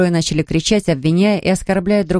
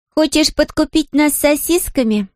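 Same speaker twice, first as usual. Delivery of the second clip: put-on higher girl's voice, slow and scornful; contemptuous; 9 semitones higher than usual. A narrator's reading. Girl mocks the offer of sausages, contemptuous. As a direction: sneer at the bribe. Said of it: "с презрением бросила Мэри".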